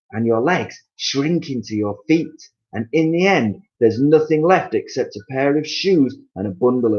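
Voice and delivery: husband scaring his wife with the end; Mister Twit, building. Acted. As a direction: build the horror step by step.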